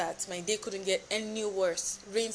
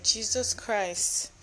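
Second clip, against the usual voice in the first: slow, drawn-out exasperated mutter; exasperated sigh; much slower than usual. Real, not acted. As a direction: let it out like you give up. Stuck beside farting strangers.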